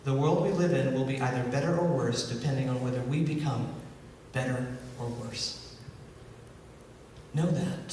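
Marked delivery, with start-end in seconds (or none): 0.0-5.8 softer solemn restating. Shown as a demonstration. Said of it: "So again, that divine truth".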